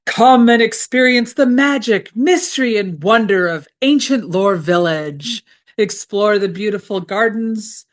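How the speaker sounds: lightly voiced movie trailer narrator; Morgan Freeman voice. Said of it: "in my best, uh, Morgan Freeman voice".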